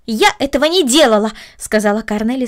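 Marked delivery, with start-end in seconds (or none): 0.0-1.3 indignant denial. Acted. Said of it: "сверкнув глазами".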